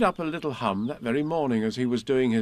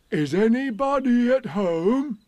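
much higher, louder call; 11 semitones higher, 7 dB louder, slower than usual. Acted. Pooh calls into the rabbit hole, loud call. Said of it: "and called out".

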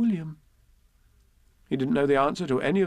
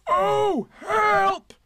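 loud, high cry for help; Pooh; 6 dB louder than usual. Acted. Bear stuck in a jar, wailing for help. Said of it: "he said inside the jar".

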